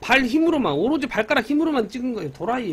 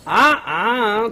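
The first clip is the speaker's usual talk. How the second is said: playful aegyo; 5 dB louder, much slower than usual. Pretend. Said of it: "나 또 애교 부린다".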